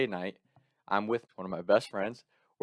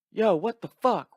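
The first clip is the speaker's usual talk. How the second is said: retold indignant outburst; 11 semitones higher, slower than usual. Friends react to roommate being elbowed.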